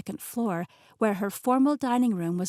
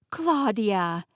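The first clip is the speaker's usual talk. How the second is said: delighted greeting; 4 dB louder than usual. Acted. Greets arriving friend.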